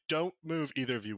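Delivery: urgent guard's order. Acted. Guard to bystanders at the crime scene, urgent order.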